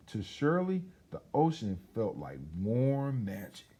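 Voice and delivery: put-on lively storybook reading for children; story narration. A narrator's reading. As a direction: tell it like a bedtime story to kids. Reads picture book aloud.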